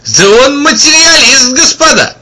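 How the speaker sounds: high, loud mocking call to the crowd; loud jeer. A narrator's reading. Agent loudly mocking the wanderer before the crowd. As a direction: announce it loudly to the crowd, jeering. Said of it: "громко сказал".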